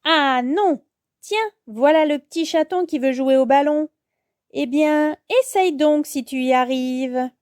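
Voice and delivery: mocking, theatrical challenge; taunting villainess. Sorceline dares Yo-Yo to try, taunting. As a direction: taunt the little hero.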